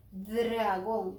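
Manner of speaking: "Dragón" drawn out, D rolled into the R; blended sounds, stretched. Shown as a demonstration. Teacher joins D and R, stretching the word. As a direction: lengthen "draaa" in "Dragón".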